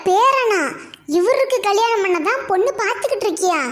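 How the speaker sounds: can't believe what she's hearing; shocked disbelief. Acted. Woman mocks old man's grandson. (நம்ப முடியாத அதிர்ச்சி)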